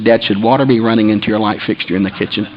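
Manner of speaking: low, soft, unbothered question; calm daughter. Retold or imitated. Daughter asking dad about the kitchen, calm. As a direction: imitate a daughter calmly reporting trouble. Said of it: "she was so calm".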